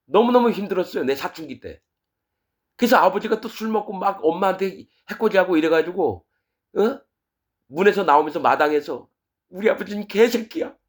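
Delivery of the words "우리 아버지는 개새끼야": mock tearful, high-pitched crying outburst. Retelling shouting about the father in the yard: imitating own past crying. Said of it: "막 울면서 그랬어요".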